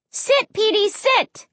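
high, urgent command; high-pitched, insistent command; ordering a dog. A narrator's reading. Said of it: "I ordered".

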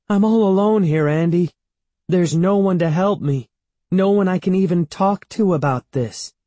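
high, loud lament; despairing wail. A narrator's reading. Evan telling Andy nobody can help, despairing wail. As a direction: cry it out helplessly, pitched high.

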